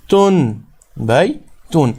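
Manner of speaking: تن and بی said as separate syllables, n clear at the end of تن; syllables sounded separately. Shown as a demonstration. Teacher spelling out the word for students, تن and بی as separate clear syllables. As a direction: sound out تن، بی، تن piece by piece with an audible final n. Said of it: "نون کی آواز".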